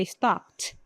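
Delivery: stopped with -ed sounded as T; final T sound. Shown as a demonstration. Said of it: "como se fosse um T".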